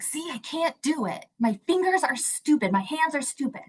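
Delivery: a hint of a kid giving up on his gloves; little boy. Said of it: "And he's like".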